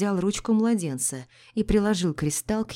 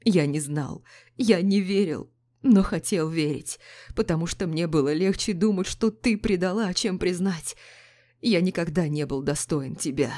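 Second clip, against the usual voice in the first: sobbing. Acted. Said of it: "Ревел муж".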